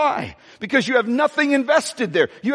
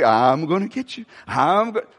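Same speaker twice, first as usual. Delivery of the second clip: playful father tease; 5 semitones lower than usual. Retold or imitated. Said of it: "as fathers that we".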